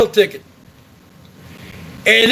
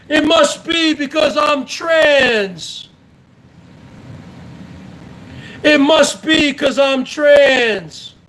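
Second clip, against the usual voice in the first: mock whining; 3 semitones higher, slower than usual. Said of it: "you said".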